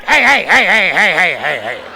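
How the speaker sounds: a hint of a jeering teacher impression; mocking the teacher. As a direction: tease his greeting, then collapse into laughter. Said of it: "we mocked him all the time".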